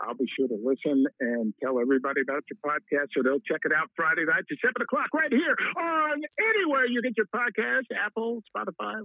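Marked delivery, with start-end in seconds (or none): 4.6-9.0 radio voice. Acted. Radio-style plug for podcast.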